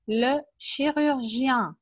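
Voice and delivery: "Le chirurgien" drawn out slowly, syllable by syllable; slow model word. Shown as a demonstration. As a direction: spell it out with your voice, slowly. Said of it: "teacher models word slowly".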